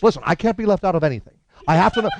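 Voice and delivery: high, urgent comic impression; Albert Brooks. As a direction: do his needy, intense demand. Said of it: "Seriously, he was really intent".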